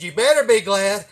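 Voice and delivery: loud, high menacing officer; loud cocky cop building up a threat; prick cop voice. Retold or imitated. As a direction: threaten him like a power-tripping cop. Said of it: "talking like a fucking prick motherfucker".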